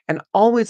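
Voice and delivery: "always" hit high and loud; emphatic always. Real, not acted. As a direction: lift "always" up high and loud, like an insistent reminder. Urging viewers to trust intuition.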